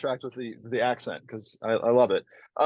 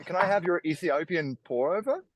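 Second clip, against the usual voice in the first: put-on higher-pitched café order, Australian accent; 5 semitones higher than usual. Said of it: "I only say in an Australian accent".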